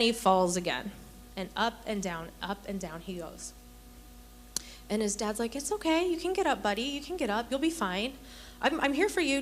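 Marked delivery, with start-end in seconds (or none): 5.6-9.4 higher-pitched, gently encouraging parent; reassuring dad. Retold or imitated. Dad to his fallen son at the skating party, reassuring. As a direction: coax him up, imitating a supportive dad.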